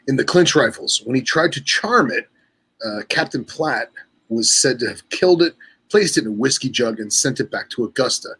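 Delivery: measured article-reading voice; reading aloud. Real, not acted. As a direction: read it out like a regional history column.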